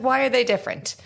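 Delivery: high, puzzled student voice; a confused pupil asking why; imitating student. Teacher retells her Japanese student asking why. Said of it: "She's like".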